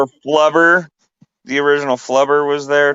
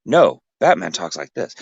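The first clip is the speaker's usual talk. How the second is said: a slightly less low Batman take; correcting with a different Batman voice; rival Batman voice; 4 semitones lower than usual. Shown as a demonstration.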